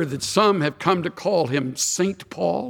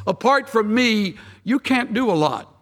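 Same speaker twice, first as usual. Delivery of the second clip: a deliberately wrong paraphrase, lightly voiced; casual misquote, set up to be corrected; mock misquote; 3 semitones higher than usual. Shown as a demonstration. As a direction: say it as the watered-down misreading. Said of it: "No, not really. It doesn't say that at all".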